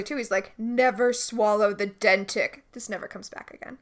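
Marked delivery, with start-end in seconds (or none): 0.6-2.6 slow, mock-ominous quote; understated portentous delivery; ominous warning. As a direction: drag it out like a grave warning. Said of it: "he says it really ominously".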